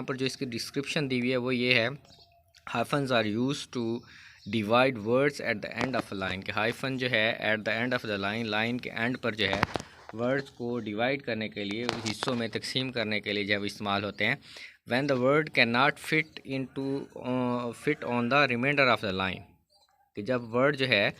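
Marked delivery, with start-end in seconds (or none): 2.8-6.4 reads the rule slowly, word by word; slow textbook reading. Shown as a demonstration. Teacher reading the rule aloud to students, slow and deliberate. 14.9-19.4 reads the rule slowly, word by word; slow textbook reading. Shown as a demonstration. Teacher reading the rule aloud to students, slow and deliberate.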